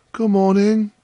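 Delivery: high, sustained friendly greeting; cheerful Hans. A narrator's reading. Hans answering the miller over his spade, cheerful. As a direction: answer brightly as humble gardener. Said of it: "said Hans".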